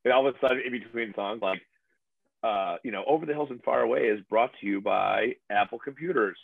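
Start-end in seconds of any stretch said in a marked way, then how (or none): 3.1-6.4 hammed-up sponsor announcement; joking ad spokesman; mock commercial read. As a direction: pitch it like a cheesy ad read. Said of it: "one big commercial".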